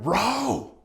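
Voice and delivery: high shouted one-word order; screamed command. Retold or imitated. Guide yelling at the father in the raft, high shout. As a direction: yell at the paddlers to keep going. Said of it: "person up front was screaming".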